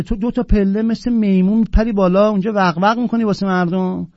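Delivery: normal talking voice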